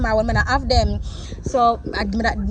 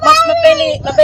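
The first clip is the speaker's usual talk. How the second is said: pain; 4 dB louder, faster than usual. Real, not acted. Sudden pain in the belly.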